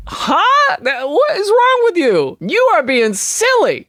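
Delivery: indignant French person. Acted. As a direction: play the offended Parisian telling someone off. Voicing the indignant French replier.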